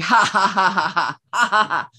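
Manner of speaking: staged ha ha ha laugh; demo laugh. Shown as a demonstration. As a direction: act out laughing aloud. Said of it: "we're like".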